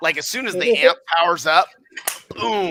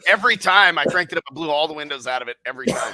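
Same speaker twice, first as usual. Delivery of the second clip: laughing. Real, not acted. Laughing while retelling the brag.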